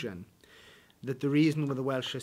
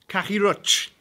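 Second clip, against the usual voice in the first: mock outrage; 7 semitones higher, 10 dB louder than usual. Welsh retort to stereotype.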